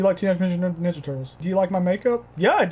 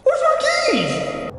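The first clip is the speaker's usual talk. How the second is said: yelling across the room; slower than usual. Real, not acted. Searching for keys.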